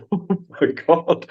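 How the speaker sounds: slow, high "Oh my God."; retold amazement. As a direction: stretch it out in disbelief. Amazed as pupil nails roundabout.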